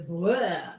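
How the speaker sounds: big gushing "blah" noise; imitated splurge of sound; love-bombing blah. Shown as a demonstration. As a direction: burst it out as one long "blah". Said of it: "So love bombing is".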